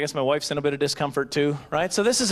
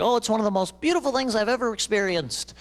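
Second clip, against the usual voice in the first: higher, sing-along mock awe; mock gushing father; 5 semitones higher than usual. Fathers raving about the birthing event, mock gushing. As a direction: gush like a doting dad, mockingly. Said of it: "I hear some fathers talk about the birthing event".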